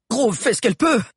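high, strained excuse; apologetic protest. A narrator's reading. Mano excusing Grove to Sabi, apologetic protest. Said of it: "s'excusa Mano".

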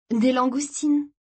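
lightly voiced sister, slow and high; girl ordering. A narrator's reading. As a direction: say it high and unhurried. Girl answers at dinner.

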